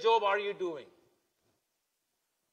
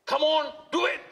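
put-on raised, higher, pushy call to the kids; parent's mock shout; 7 semitones higher than usual. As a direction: yell it at the children like a fed-up parent. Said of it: "shout at them".

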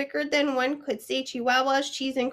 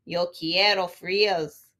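somber voice; 3 semitones lower, 3 dB louder than usual. Acted. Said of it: "in his most somber voice declared".

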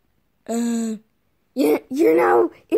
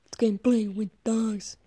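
hushed aside; whispering; 4 semitones lower, 8 dB quieter than usual. Real, not acted. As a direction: whisper it to the chat.

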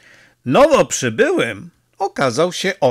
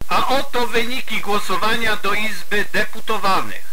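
higher, steady results read like a radio voice; radio announcer; 7 semitones higher than usual. A narrator's reading. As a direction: read the numbers as a broadcast. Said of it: "zaczęło gaworzyć radio". (radio ogłasza wyniki głosowania: głos spikera)

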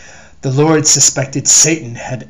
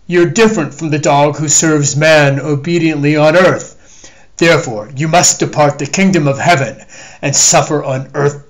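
proclaiming God; 4 dB louder than usual. Acted. The Lord banishing the creature, loud proclamation. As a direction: banish him with booming authority.

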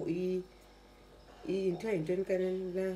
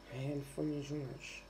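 much softer, fast, mumbled away; quieter sulky mumble; 4 semitones lower, 7 dB quieter, faster than usual. Real, not acted. Vlogger giving up on the cup, softer fast sulky mutter. Sulking about the broken cup.

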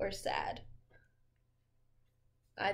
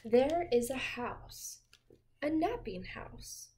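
put-on reading to children. A narrator's reading. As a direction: lull a child with a gentle read-aloud. Reading picture book to child.

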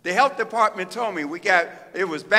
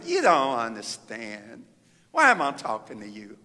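retold crying plea; 10 semitones lower, 4 dB quieter than usual. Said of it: "I was crying".

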